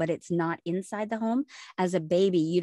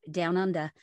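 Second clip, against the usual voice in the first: a brief stab at an Australian accent; attempted Australian accent. Shown as a demonstration. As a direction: try "down under" in Australian. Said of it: "I can't be Australian".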